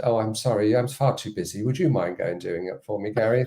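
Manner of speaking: breezy mock politeness. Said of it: "I don't think I said it like that".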